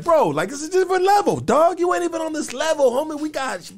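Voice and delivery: military dude. Retold or imitated. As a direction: brag like a swaggering soldier. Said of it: "The military dude is gonna be like".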